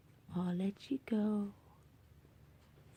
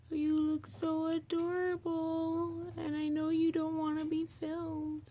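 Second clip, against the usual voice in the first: pet talk; 3 semitones higher, 5 dB louder than usual. Real, not acted. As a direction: croon it like talking to a beloved kitten. Cooing to her cat.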